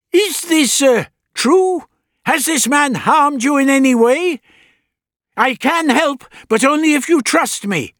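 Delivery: put-on high, loud old man asking; old doctor voice. A narrator's reading. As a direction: coax it like a kindly elder. Doctor questions the alien.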